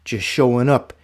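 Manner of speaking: slow, solemn poem reading. Shown as a demonstration. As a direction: read it slow and heartfelt, like a poem. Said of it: "I'm gonna read it just like my grandfather would probably wanna read it".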